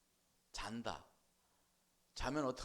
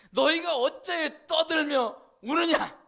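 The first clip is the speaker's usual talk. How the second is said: slow, loud rebuke, much higher; Jesus rebuking mourners; 12 semitones higher, 18 dB louder, much slower than usual. Acted. Jesus scolding the wailing crowd, slow loud rebuke. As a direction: boom out the question slowly. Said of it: "주님께서도 말씀하시는 거예요".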